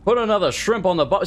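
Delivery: hammed-up Aussie impression; attempted Australian accent. Imagining an Aussie viewer replying, mock Australian accent. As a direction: have a rough go at an Australian accent. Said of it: "trying to do an Australian impression".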